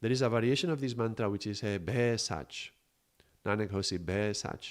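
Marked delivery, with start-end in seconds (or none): 1.8-4.7 "Be" said as long open "beh"; open-vowel variant. Shown as a demonstration. Teacher showing a mantra variation, "Be" as open "beh". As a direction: stretch "Be" like "beh", not "bee". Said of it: "explain the little difference on the Be".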